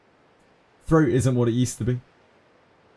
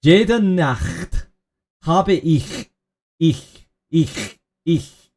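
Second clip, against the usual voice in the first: German accent attempt; 4 semitones higher, much slower than usual. Shown as a demonstration. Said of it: "No, it's too crackly".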